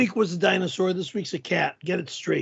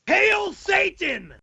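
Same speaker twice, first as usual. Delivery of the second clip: mock hail Satan; 9 semitones higher, much slower than usual. Proclaiming in costume.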